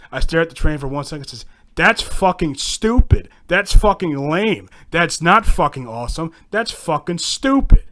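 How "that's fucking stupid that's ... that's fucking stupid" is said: angry retort. Retold or imitated. Son shouting back at dad about the train, loud disgust. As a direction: spit each line out loudly.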